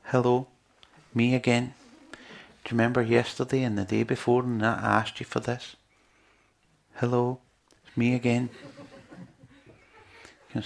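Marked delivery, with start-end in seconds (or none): 0.1-8.5 nagging prayer voice. Retold or imitated. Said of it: "Then the next day".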